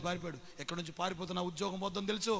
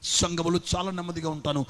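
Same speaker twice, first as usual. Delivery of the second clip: ordinary talk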